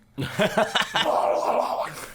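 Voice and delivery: high warble imitation mixed with laughter; warbling. Imitating the movie's dwarf creatures, high laughing warble. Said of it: "it says warbling".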